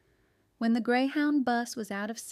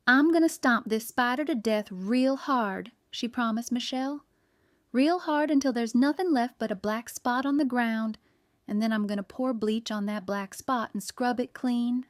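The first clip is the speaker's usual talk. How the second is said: angry; 2 semitones higher, 4 dB louder than usual. Acted. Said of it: "Anger boiled in her heart".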